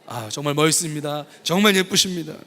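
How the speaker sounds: a little warmer, rising compliment; sincere compliment to a neighbour; warm compliment demo. Shown as a demonstration. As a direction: praise the person beside you. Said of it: "시작".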